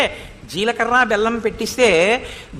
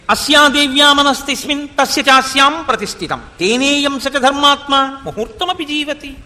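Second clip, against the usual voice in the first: measured, level-toned shloka recital; Sanskrit verse recitation; 3 semitones higher than usual. Acted. Preacher quotes scripture to the congregation, reciting Sanskrit verse.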